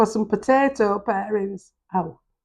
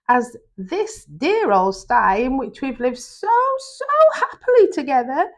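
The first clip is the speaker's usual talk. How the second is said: mother pig voice; 4 semitones higher than usual. Acted. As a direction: gently voice a frail old mother pig.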